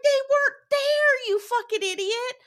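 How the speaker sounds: loud, very high outraged yell; outraged retort. Retold or imitated. Host retelling her comeback to the man, outraged. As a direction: screech it in mock outrage, drawing it out.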